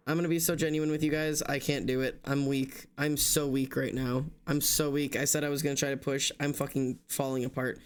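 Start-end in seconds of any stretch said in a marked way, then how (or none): none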